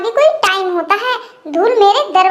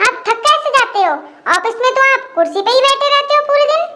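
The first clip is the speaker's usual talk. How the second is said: higher, lightly put-on young woman's voice; teasing sister-in-law; 4 semitones higher than usual. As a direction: needle the brother-in-law playfully. Sister-in-law teases brother-in-law.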